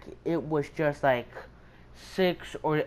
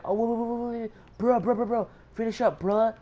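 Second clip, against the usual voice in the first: high, rapid-fire protest; higher voice, words tumbling out in repeats; mock panicked pleading; 7 semitones higher than usual. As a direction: imitate flustered students begging for a moment. Panicked students pleading, retold.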